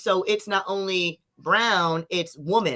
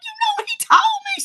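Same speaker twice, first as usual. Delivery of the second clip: urgent whisper; faster than usual. Retold or imitated. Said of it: "I was like".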